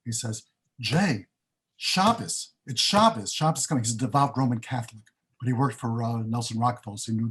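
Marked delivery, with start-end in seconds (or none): 0.8-3.8 raised, pressing alarm about Shabbos; urgent worry. Retold or imitated. Counsel Bob warning Jay that Shabbos is coming, urgent and worried. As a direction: voice the devout friend's anxious urgency. Antsy friend as sundown nears.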